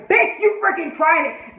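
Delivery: high, slow, stretched rebuke; worked-up sassy outrage; indignant comeback. Real, not acted. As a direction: tell the villain off, drawing it out. Rant answering the villain.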